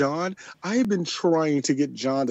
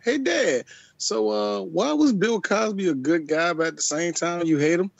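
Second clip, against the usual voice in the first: lightly voiced son, pitched higher; imagined son; 3 semitones higher than usual. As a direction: play a son putting a question to Dad, voice a little raised. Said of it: "I'm waiting for my son".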